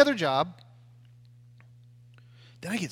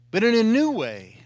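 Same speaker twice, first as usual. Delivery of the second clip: whisper; 4 semitones higher, 8 dB louder than usual. Real, not acted. Sermon climax dropped to whisper.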